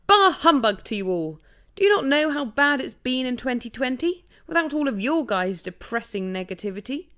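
shouting. Retold or imitated. Narrator to the moaning animals over the zoo wall, shouting. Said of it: "With a shout over the zoo wall, I cried".

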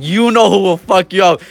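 drawn-out trash talk, retold; retold taunt. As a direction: stretch out the challenge as if retelling it. Retold trash talk, repeated louder.

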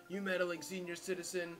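lightly imitated proper talker; all proper. Stuffy talker scolds a senior citizen, mildly mock-proper. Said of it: "like, all proper like that".

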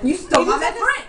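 laughing accusation. Acted. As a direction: yell it, breaking into laughter. Acted quarrel, laughing through.

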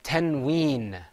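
"Tanween" projected for a class to repeat; teacher modelling "Tanween", long ween; model pronunciation. Shown as a demonstration. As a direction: say "Tanween" in two full, drawn syllables. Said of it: "Say it with me".

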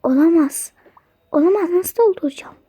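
ordinary talk

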